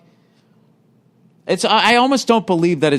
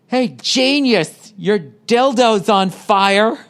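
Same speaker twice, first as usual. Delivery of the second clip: put-on snarky old stewardess; 4 semitones higher, much slower than usual. Voicing snarky elderly stewardess.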